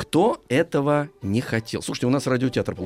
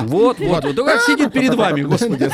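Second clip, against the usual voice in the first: laughing; 7 semitones higher, 6 dB louder than usual. Real, not acted. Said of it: "laugh heard".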